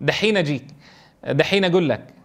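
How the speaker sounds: Jeddah dialect. Retold or imitated. Teacher quoting what he heard in Jeddah, mild Hijazi accent. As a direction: casually voice Jeddah locals saying dahin. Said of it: "هكذا سمعتها من بعضهم".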